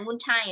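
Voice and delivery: multi misread as "moon-tai"; mispronunciation. Shown as a demonstration. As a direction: mistaken "multi" with "oo" first and "tai" last. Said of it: "không phải là multi hay cái gì đấy". (multi đọc sai thành "mun-tai")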